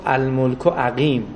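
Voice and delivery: «الملک عقیم» drawn out slowly, falling on «عقیم»; solemn slow quote. Retold or imitated. Caliph answering his son, slow and grave. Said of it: "گفت".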